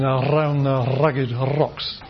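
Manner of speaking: around, rugged and rocks with trilled Rs; drawn-out trills on the Rs of around, rugged, rocks; rolled Rs. Shown as a demonstration. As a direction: slowly roll every R in around the rugged rocks. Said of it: "what are called trills or rolls".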